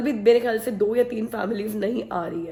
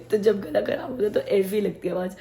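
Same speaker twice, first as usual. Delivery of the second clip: hoarse sore throat; 2 semitones lower than usual. Real, not acted. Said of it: "इसकी normal आवाज़ ऐसी है तो गला ख़राब होता तो कैसी लगती होगी".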